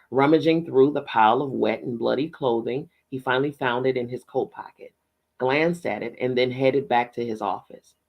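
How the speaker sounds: lively, measured audiobook reading; story narration. A narrator's reading. Reading a novel aloud to listeners, story narration. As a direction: narrate it with gentle emphasis.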